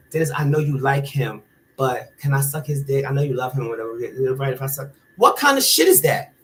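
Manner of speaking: a hint of a catty friend begging; mocking friend. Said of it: "Bitch gonna tell me".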